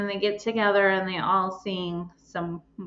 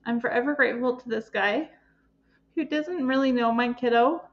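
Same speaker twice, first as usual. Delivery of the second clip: real tearful emotion; 3 semitones higher than usual. Real, not acted. Mom recalling the man who helped her son, close to tears. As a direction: voice pitched up and tight, fighting back tears. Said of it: "Sorry, I'm emotional".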